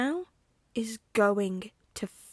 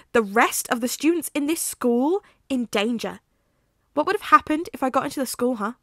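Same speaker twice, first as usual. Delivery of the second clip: furious shouting; 3 semitones higher, 8 dB louder than usual. Acted. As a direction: tear into him, then break off. Remus explodes at Sirius.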